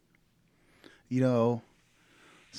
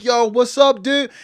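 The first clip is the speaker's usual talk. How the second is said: higher, louder casual bro greeting; 9 semitones higher, 9 dB louder than usual. Retold or imitated. Walking into his roommate's room, casual greeting. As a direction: call out to the roommate breezily. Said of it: "and I'm like".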